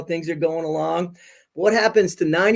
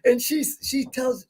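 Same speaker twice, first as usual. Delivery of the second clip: excited; 7 semitones higher than usual. Real, not acted. Retelling thrilling concert moment.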